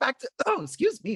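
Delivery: voice cracking. Just before asking a question, voice cracking. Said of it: "My voice just decided to crack there".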